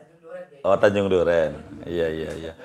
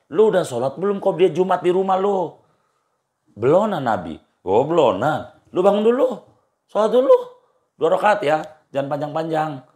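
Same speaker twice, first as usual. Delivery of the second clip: acted exchange in casual Betawi, mostly higher-pitched; Betawi vernacular; 4 semitones higher than usual. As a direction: retell it as everyday Betawi banter. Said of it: "kalau bahasa Betawinya".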